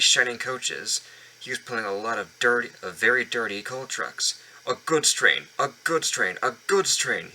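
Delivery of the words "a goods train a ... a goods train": grumbling, a bit louder; sulky repeated complaint. Acted. Gordon forced to pull coal trucks, grumbling. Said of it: "he grumbled".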